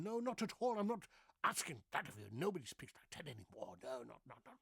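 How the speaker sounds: lightly hammed theatrical denial; mock grand actor's protest; Shakespearean actor. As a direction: declaim it like a stage thespian. Still hamming the Shakespearean voice.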